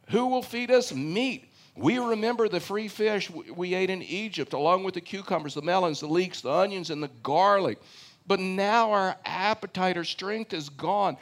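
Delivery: whiny complaint. Acted. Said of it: "read this in, like, a whiny voice".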